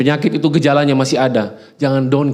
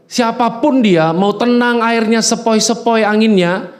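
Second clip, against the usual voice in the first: raised, slow preaching; 7 semitones higher, slower than usual. Real, not acted.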